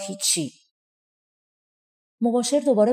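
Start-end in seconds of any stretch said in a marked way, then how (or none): 0.1-0.5 soft, sad and dropping; sad reply. A narrator's reading. Pepi brushing off the steward's question, sad and softer. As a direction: mumble it out sadly. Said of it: "با ناراحتی جواب داد".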